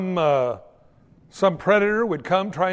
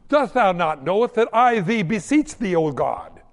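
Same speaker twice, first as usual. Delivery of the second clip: mock pompous prayer; 4 dB louder than usual. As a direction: overdo a solemn beseeching prayer. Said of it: "pray in sixteenth century King James English".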